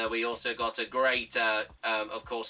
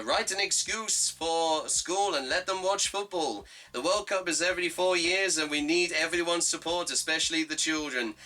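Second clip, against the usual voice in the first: put-on higher-pitched German-accented English; Thomas Tuchel accent; 4 semitones higher than usual. England manager asking schools to let children watch, put-on German accent. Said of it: "that was my best, uh, Thomas Tuchel accent".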